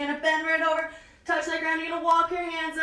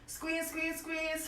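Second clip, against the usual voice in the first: much softer, coaxing squeeze cues; 11 dB quieter, much slower than usual. Real, not acted. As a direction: ease the cue out gently as they hold. Coach cueing the squeeze.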